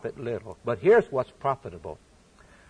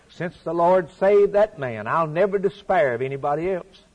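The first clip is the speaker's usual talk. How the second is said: louder, higher retold vow; emphatic declaration; 3 semitones higher, 4 dB louder than usual. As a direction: declare it with rising conviction.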